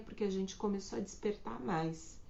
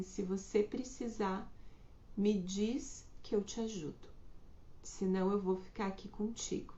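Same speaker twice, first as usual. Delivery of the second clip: soft reassurance; 4 dB quieter than usual. Shown as a demonstration. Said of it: "dizer assim".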